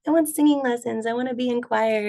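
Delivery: lightly voiced insistent child; older child self. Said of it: "then as I got older".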